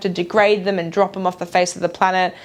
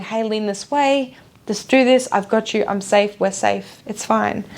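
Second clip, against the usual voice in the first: gentle intuition voice. Retold or imitated. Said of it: "the small nudges going".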